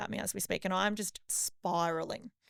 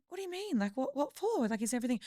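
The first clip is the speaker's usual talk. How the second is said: worried mum; 4 semitones higher than usual. Retold or imitated. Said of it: "she's going".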